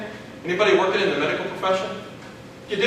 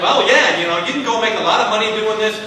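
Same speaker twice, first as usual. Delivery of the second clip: mock overexcited pitch; 3 dB louder than usual. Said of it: "foaming at the mouth telling me".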